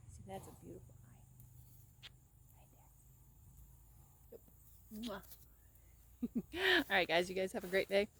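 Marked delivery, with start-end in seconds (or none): 0.1-5.2 slow tender whisper. Real, not acted. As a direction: breathe it slowly and gently. Whispering to horse.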